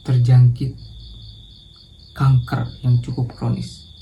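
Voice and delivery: mild sadness with long heavy pauses; understated sorrowful doctor; sad. Shown as a demonstration. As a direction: break bad news gently to a mother. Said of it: "mencoba berdialog dengan intonasi yang sedih".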